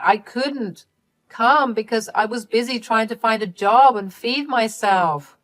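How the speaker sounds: high, loud panicked denial easing off; desperate pleading. Acted. Caught daughter begging her parents to believe her, panicked and high. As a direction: plead your innocence in a rush.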